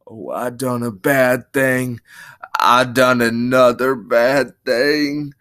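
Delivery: slow, drawn-out dismay; dawning childlike dread, fully voiced; frightened. Lenny realising he has killed her, frightened. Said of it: "he whispered in fright".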